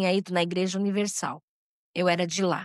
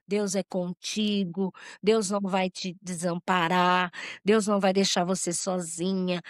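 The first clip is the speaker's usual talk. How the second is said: reassuring mother. Retold or imitated. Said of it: "falou pra mim".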